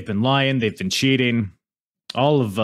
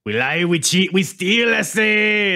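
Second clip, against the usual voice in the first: high, loud put-on Asian accent; playful Asian accent impression; mock Asian accent; 10 semitones higher, 4 dB louder, slower than usual. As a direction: shout the catchphrase in a hammed-up Asian accent. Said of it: "That was my Asian accent".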